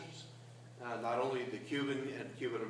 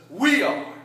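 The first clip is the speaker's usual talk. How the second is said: loud, high shout; preacher echoes the church's loud answer; 7 semitones higher, 12 dB louder than usual. Retold or imitated. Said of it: "jumps up and says".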